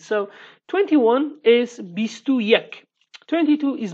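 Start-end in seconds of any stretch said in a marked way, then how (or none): 1.8-2.9 "bistu yek" said slowly as a Kurdish demo; Kurdish number. Shown as a demonstration. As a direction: say "bistu yek" carefully, word by word. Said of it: "In Kurdish, we say like this".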